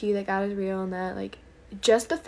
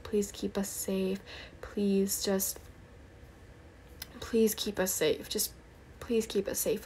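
softer, hushed pleading prayer; retold urgent prayer; 5 dB quieter than usual. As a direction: re-enact praying for safety under your breath. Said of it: "I just started praying".

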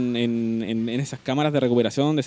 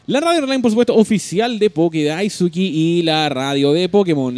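announcer; 4 semitones higher, 3 dB louder than usual. Acted. Announcing show name.

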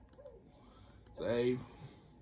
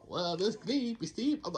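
Count Dracula voice. Pretend. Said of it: "Why am I sound like Count Dracula?".

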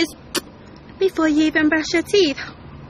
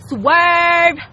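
mock tough retort; 2 semitones higher, 6 dB louder than usual. Retort to critics.

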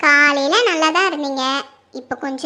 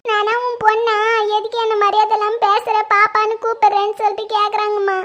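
plaintive, crying report; weepy retelling of an insult; tearful complaint; 2 semitones higher than usual. Acted. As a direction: pour out the hurt tearfully. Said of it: "நீ கண்ணை தொடை first".

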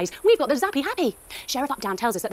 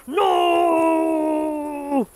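angry refusal; 4 semitones higher, 4 dB louder than usual. Acted. Rex refuses angrily.

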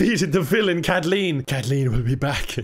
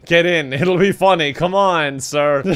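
louder, pushier repeat of the line; louder coaxing; 5 dB louder than usual. Shown as a demonstration. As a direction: push harder, say it louder.

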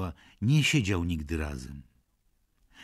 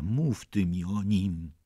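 louder, slower urgent call; 5 dB louder, slower than usual. Acted. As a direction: call out, demanding to be told. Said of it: "zawołała".

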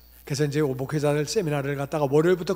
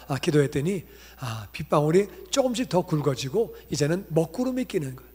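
ordinary talk, nothing marked

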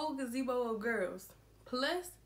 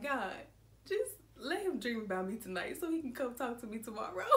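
laughing prayer; 3 dB quieter, faster than usual. Retold or imitated. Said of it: "I'm gonna be like".

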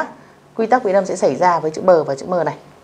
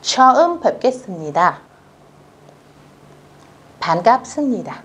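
fast read-along; 3 semitones higher, much faster than usual. Shown as a demonstration. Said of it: "cùng cô đọc lại".

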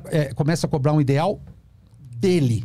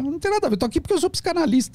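retold reply; 11 semitones higher, faster than usual. Retelling his own reply to patient.

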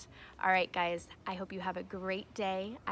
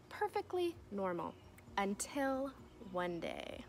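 put-on reading to children. Teacher reading a picture book to her class, storybook voice. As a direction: read it like story time for little kids.

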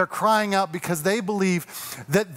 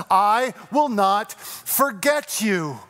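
very slow promise; much slower than usual. Acted. God's promise, slowed.

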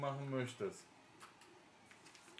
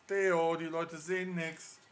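calling out; 2 semitones higher, 7 dB louder, slower than usual. Real, not acted. Father calls out again.

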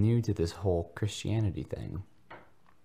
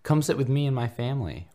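eager; 8 semitones higher, 5 dB louder than usual. Acted. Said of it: "Ronald offered eagerly".

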